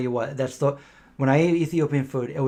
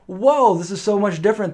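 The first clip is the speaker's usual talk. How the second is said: surprised whoa; 7 semitones higher, 6 dB louder than usual. Retold or imitated. Surprised reaction retold.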